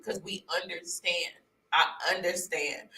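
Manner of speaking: comforting. Retold or imitated. Strangers comforting her at the office, soft and reassuring. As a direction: gently retell their reassurance.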